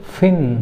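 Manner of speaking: फिन with a clear f, not p; teacher demo of फिन. Shown as a demonstration. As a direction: bite the lip for the f in फिन. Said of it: "क्या पढ़ेंगे?".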